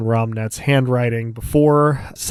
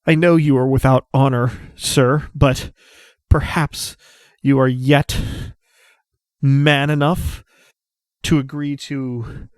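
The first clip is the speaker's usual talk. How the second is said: formal challenge; 3 semitones higher than usual. Acted. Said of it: "turns and squares his shoulders at Dosk".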